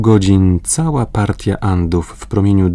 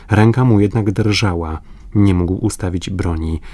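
ordinary delivery, nothing marked

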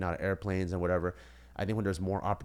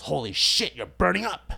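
surprised; 9 semitones higher, 7 dB louder than usual. Retold or imitated. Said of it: "And he goes".

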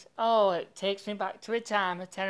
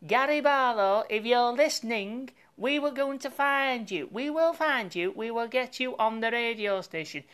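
calling out; 4 semitones higher than usual. Real, not acted. Calling out to a celebrity.

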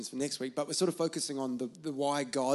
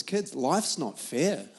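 firm; 3 semitones higher than usual. Retold or imitated. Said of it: "I'm teaching my kids".

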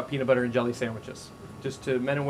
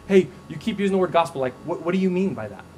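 curious friendly question; 3 semitones higher, 4 dB louder, faster than usual. Retold or imitated. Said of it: "No, no, no, just".

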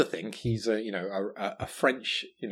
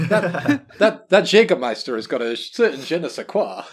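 loud attempt at a French accent; hammed-up French gentleman's accent; badly faked French accent, stumbling into it; dubious French accent; 3 semitones higher, 6 dB louder than usual. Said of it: "Is that your French?".

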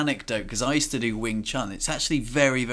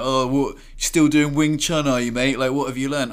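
teasing mate; 3 semitones higher, 5 dB louder than usual. Retold or imitated. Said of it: "he's like".

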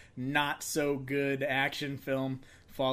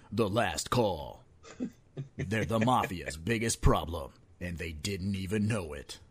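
movie trailer voice; 2 semitones lower than usual. Pretend. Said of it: "get my voice back on".

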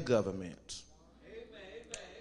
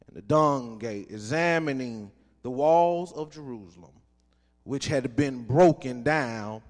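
reverent scripture reading from the pulpit. Acted. Pastor reads Nehemiah aloud.

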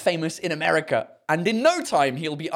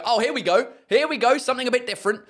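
intrigued audience member, pitched up; mock delighted crowd; 6 semitones higher, faster than usual. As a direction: greet the exotic newcomer. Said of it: "straight away you go".

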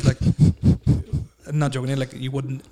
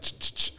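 imitated stutter; 5 dB quieter than usual. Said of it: "And I'm like".

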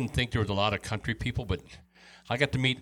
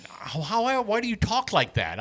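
incredulous; 10 semitones higher than usual. Retold or imitated. Baffled newcomer questioning local's accent.

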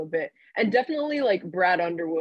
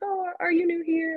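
high Texas Southern drawl as Lovie; 12 semitones higher than usual. Retold or imitated. Reporter retelling Lovie's first greeting in Texas drawl. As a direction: drawl it out like a Texas coach, lightly hammed. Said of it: "little Texas Southern drawl".

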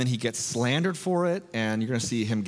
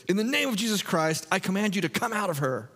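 fed-up command; 7 semitones higher than usual. Retold or imitated. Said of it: "he gets so annoyed".

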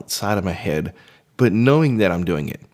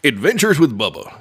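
lightly put-on cartoon character voice; Bubba; 5 semitones higher, 3 dB louder than usual. Shown as a demonstration. Man showing off a voice from his voice work, cartoonish. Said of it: "doing my Bubba voice".

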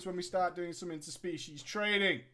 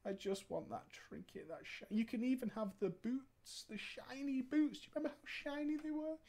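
begging raid mate; 3 semitones higher, 7 dB quieter than usual. Retold or imitated. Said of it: "he was screaming in my chat saying".

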